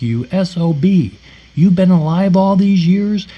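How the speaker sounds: retold anger. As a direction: act out an angry accusation from a dream. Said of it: "I am so mad in my dream".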